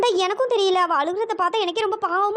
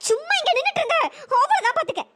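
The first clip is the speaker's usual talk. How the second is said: tearful threat; 5 semitones higher than usual. Acted. Maha threatening the man to leave, tearful. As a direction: warn him one last time, half sobbing.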